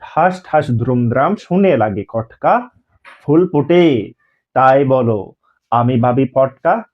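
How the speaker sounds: slow, rhythmic nursery rhyme recital. Shown as a demonstration. Teacher recites a rhyme for children, slow and rhythmic. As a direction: chant it slowly for a child. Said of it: "একটা ছড়া দিয়েছি".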